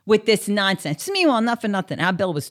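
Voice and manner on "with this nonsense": annoyed waitress. Retold or imitated. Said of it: "fully annoyed".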